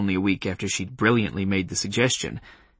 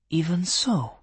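put-on Polish accent; 7 semitones higher, 3 dB quieter, slower than usual. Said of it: "in a Polish accent".

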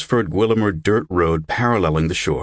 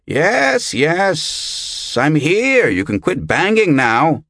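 high, louder irritated answer; 9 semitones higher, 4 dB louder, much slower than usual. A narrator's reading. Brother Albert answering insistent knocking at the door, irritated. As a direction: answer the banging with exasperation. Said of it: "in an irritated voice".

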